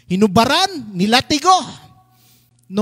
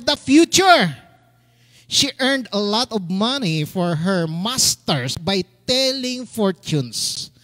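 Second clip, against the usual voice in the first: slow, drawn-out preacher's reading; scripture reading; slower than usual. A narrator's reading. Pastor reading the slave girl story, slow and emphatic. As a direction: read each phrase out deliberately.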